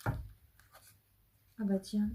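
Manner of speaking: very slow ah bah tiens; drawn-out surprise. Real, not acted. Reader surprised as a card falls out, slow. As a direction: let surprise stretch the words.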